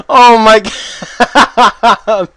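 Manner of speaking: high, loud disbelieving laugh; cracking up in real surprise; burst of laughter. Real, not acted. Player laughing as opponent just drops dead, loud laughing.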